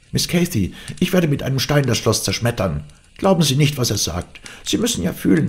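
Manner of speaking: urgent, high-pitched scolding; indignant nurse. A narrator's reading. Nurse shouts indignantly from inside.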